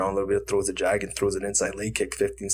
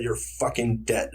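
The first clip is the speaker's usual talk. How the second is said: slow, controlled mock threat; retold anger; slower than usual. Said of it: "Right like this".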